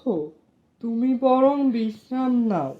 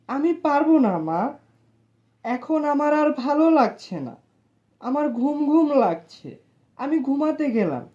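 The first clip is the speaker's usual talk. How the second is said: grumbling refusal; 3 semitones higher than usual. Acted. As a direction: complain like a sulky kid. Son refuses mother's errand.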